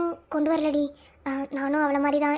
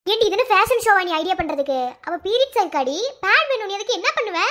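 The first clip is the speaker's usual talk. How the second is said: higher, impatient challenge; indignant scolding; 5 semitones higher than usual. Acted. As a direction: tell a friend off, exasperated. Friend snaps at useless idea-seeking.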